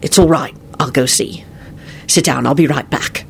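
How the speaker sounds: steady, firm reassurance. A narrator's reading. Lupin to shocked Elizabeth, firm. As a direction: take charge calmly and firmly. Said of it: "Lupin said in a firm voice".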